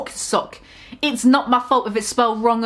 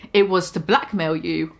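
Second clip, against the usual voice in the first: mild snark; 5 semitones lower than usual. Acted. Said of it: "I snarked".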